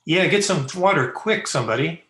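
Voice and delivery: high, loud and urgent; alarmed call for help. Acted. Young man calls for water for fainted girlfriend, alarmed shout. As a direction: call out urgently to the whole room.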